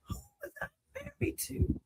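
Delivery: breathless, near-silent crying question; stunned disbelief. Retold or imitated. Learning the truth, a broken near-silent question. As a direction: let the voice break away to nothing.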